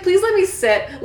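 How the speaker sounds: high, slow pleading whine; mock begging. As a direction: beg like a fainting girl. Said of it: "She's like".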